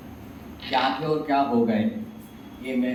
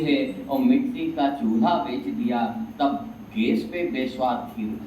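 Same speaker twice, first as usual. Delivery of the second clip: poem recitation. Acted. Poet to audience on old home comforts sold, rhythmic recitation. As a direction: recite each couplet to a settled close.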